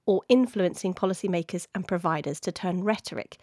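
podcast outro read. Acted. Reads the scripted podcast outro.

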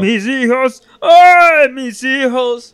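high wailing cry of a grieving mother; crying woman voice. Acted. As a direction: wail it out, slow and high, like a lost mother. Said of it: "I was trying to do a crying woman's voice".

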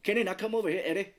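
lightly voiced film character calling someone over; Morgan Freeman impression. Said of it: "he's like".

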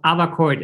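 "Avacourt" with an open AH at the start; correct AH-va pronunciation. Shown as a demonstration. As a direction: say "Avacourt" as AH-vuh-court. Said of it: "is the correct pronunciation".

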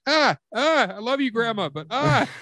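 high strained whimper; mock kid squeal; squirming little brother. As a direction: squirm while saying you love her. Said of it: "he was like".

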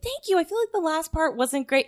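modest thanks. Retold or imitated. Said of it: "she was like".

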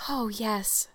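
soft blissful sigh. Acted. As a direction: breathe it out, dreamily content. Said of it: "sighed Anne".

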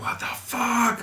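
slow, high stunned disbelief; drawn-out shocked what the fuck. Retold or imitated. Reacting to TV episode.

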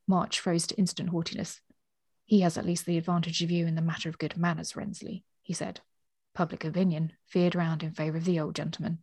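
measured storybook reading with lightly voiced dialogue; story narration. A narrator's reading. Co-host reading a novel passage to the other, measured narration. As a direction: read the passage out, letting the characters speak.

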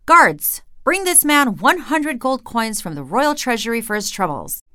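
high, loud royal summons; royal command. Acted. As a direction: call out to the guards. King calls his guards.

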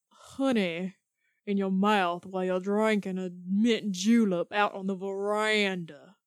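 honeyed Southern belle twang. Shown as a demonstration. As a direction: lay on a thick Southern accent. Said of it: "it's like your Southern twang".

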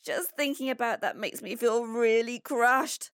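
put-on high, loud-ish boy's voice in distress; an upset child recounting a nightmare to Dad; gasping upset boy. A narrator's reading. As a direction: pour out a bad dream, distressed. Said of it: "Pablo gasped".

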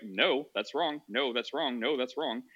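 calm, level, repeated correction; calm repetition. Retold or imitated. Streamer retells refusing to agree with him, calmly repeating. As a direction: keep correcting without raising the voice. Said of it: "I just calmly kept being like".

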